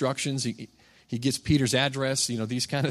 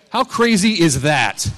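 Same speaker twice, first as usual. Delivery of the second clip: loud, slow, higher punch line; amazed exclamation; 4 semitones higher, 8 dB louder, slower than usual. Retold or imitated. Businessman tells the young man about his test, amazed. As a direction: belt out the retold amazement, drawn out.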